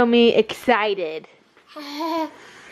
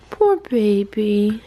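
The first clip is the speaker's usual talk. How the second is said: cooing; 3 semitones lower, slower than usual. Acted. Comforting the baby.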